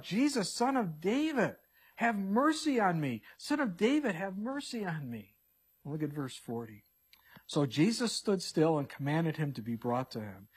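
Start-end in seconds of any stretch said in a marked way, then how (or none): 0.0-5.4 higher pleading call, fading on the last plea; crying out. Acted. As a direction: call out the plea, then let it sink. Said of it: "And he cries out".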